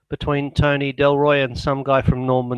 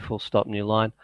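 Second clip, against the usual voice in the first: softer aside dictating punctuation; 4 semitones lower, 6 dB quieter than usual. Real, not acted. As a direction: drop the voice for the punctuation commands.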